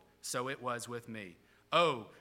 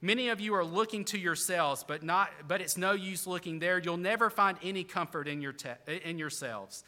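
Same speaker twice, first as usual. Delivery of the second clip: put-on broad Essex accent; 3 semitones higher, 3 dB louder than usual. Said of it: "The preacher began thus".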